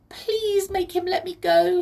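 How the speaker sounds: high, tiny pleading voice; begging pixie. A narrator's reading. Pixie begs Molly for help, pleading. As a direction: beg in a high, loud little voice. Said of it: "she begged her".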